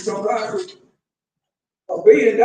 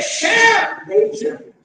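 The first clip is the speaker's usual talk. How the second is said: mock shout; 10 semitones higher, 4 dB louder, slower than usual. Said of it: "But you say".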